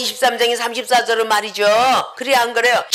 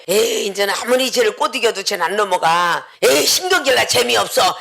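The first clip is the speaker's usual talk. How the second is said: annoyed spirit; 4 semitones lower than usual. Acted. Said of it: "막 집적거렸던 영혼이".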